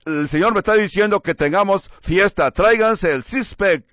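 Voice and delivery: a hint of a cheering party host; mock party preacher. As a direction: play the boozy preacher rallying the crowd. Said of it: "le dicen al pueblo".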